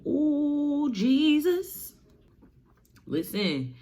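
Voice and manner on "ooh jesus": high frantic panic cries; freaking out. Acted. Three kids spotting the Titan, high panicked yelps. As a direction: yelp it out in terror. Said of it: "All three of them freak out like".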